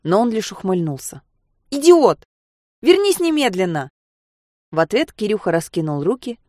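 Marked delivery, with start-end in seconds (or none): 1.7-3.9 much higher and louder, a frightened furious yell; terrified girl screaming at her friend on the roof edge. Acted. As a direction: scream at him to get back now. She screams at him on edge.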